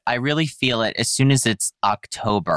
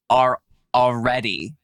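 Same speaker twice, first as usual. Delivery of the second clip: honked out like a seal bark; accidental seal-like honk on are. Real, not acted. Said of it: "I sounded like a seal".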